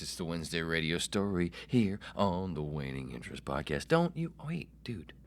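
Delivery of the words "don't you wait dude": unvoiced urgent whisper. Host shushing himself, whispered. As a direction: hiss it under your breath. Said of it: "with the inside voice".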